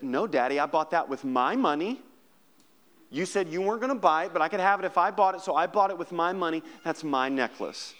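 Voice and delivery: put-on a little girl indignantly defending what's hers; fast, insistent childish protest; appalled child. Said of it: "almost appalled".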